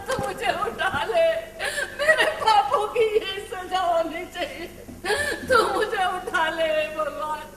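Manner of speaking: tearful mother's wail to God; lamenting. Acted. Mother mourning the daughter she killed, weeping. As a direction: break down in guilt and grief.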